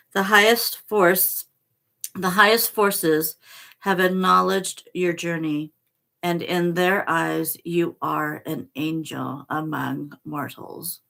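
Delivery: measured, earnest reading of a sacred text; solemn card reading. Acted. Reading the card's message to Michael, in solemn reading voice. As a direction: read it like a blessing, slow and deliberate.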